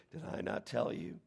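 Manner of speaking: softened voice, reassuring her; tender, knowing. Retold or imitated. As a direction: say it with a loving wink. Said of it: "He's saying tenderly".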